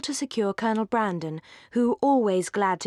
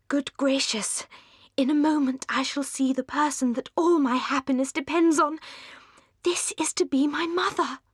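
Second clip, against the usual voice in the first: nervous whisper; 5 semitones higher than usual. A narrator's reading. Lucy nervous before meeting Mrs Ferrars.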